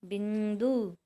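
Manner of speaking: बिंदु said with a humming nasal before द; teacher sounding out बिंदु; demonstrating the nasal. Shown as a demonstration. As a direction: let बिंदु hum through the nose. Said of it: "हमने बोला जैसे बिंदु".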